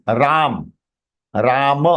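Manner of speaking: "Ram" ending in a short, sounded "ma"; full final ma. Shown as a demonstration. Teacher correcting students, "Ram" said as "Raa-muh". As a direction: let "Ram" finish on a short open a. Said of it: "when we are pronouncing this word".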